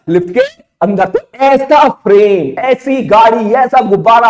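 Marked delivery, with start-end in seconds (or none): 0.1-1.0 emphatic high answer. Shown as a demonstration. Teacher drilling the class on the answer, high and emphatic. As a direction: throw lift के अंदर up much higher, ringing out.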